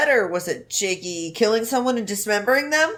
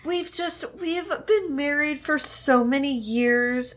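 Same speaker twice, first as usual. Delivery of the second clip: apology video voice. Pretend. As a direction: play the hurt celebrity apologizing. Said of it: "His apology video voice".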